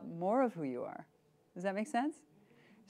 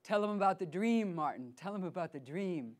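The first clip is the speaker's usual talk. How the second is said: soft urging; 3 dB quieter than usual. Retold or imitated. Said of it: "she's saying".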